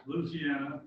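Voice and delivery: Louisiana said short, as LOO-zee-ANN-uh; local pronunciation. Shown as a demonstration. Speaker offering club members ways to say the state, short local pronunciation. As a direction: run the start of Louisiana together as "Looz". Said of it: "depending on which you want to say".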